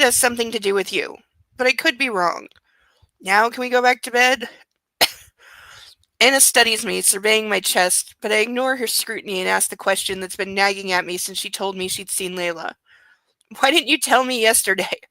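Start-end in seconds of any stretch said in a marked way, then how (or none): 6.2-15.0 steady, even audiobook read; story narration. A narrator's reading. Reads the novel aloud.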